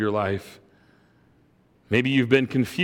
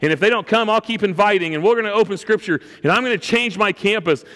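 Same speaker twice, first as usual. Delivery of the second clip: high, rushed, building vow without sobs; retold impassioned bawling; 7 semitones higher, faster than usual. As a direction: retell her fervent declaration, pitched up and tumbling out. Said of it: "And she's bawling".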